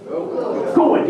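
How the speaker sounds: Good stretched into GOO-wud; good as two syllables. Shown as a demonstration. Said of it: "good is two syllables".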